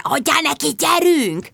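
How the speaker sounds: urgent high egging-on; feverish hiss. A narrator's reading. Sharon urging Bridget during the call, feverish. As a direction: goad your friend on in a strained, high voice. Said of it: "lázasan sziszegte".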